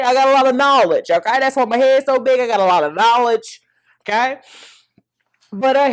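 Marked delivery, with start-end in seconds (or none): 0.0-4.4 louder, sassy boast about knowledge; jokey bragging to viewers about her big head; playful brag. Real, not acted. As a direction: show off, half joking.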